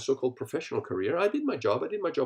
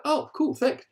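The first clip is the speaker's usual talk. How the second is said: sarcastic thanks; 12 semitones higher, 5 dB louder than usual. Retold or imitated. Mock reply to useless advice.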